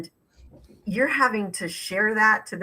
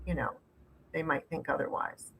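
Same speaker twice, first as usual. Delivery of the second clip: sarcastic. Real, not acted. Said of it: "I have to be a bit sarcastic here".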